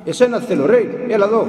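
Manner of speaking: loud, gruff summons; rough call. Retold or imitated. Elder insists the novice come, loud rude call. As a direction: shout him over without courtesy. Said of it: "ξανά".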